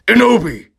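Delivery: high loud call of "Inobi!". Acted. Draco bursts from the guitar and calls out to Inobi.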